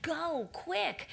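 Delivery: retold urgent send-off. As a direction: urge someone off in a rush. Acting out urgent departure.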